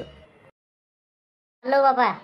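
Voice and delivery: slow, stretched, grudging going; sulky drawn-out reply. Acted. Chased off the field by the farmer, sulky drawn-out reply. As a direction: drag it out, annoyed to leave.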